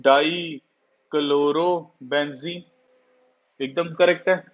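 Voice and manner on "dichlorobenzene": slow, drawn-out student reciting the answer; a lightly voiced student answering very slowly; student's answer. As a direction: spell it out like a pupil answering sir. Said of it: "you will say".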